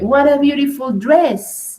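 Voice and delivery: admiring exclamation on "What a beautiful dress"; emphatic intonation. Shown as a demonstration. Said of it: "You can add emphasis, but more in the intonation".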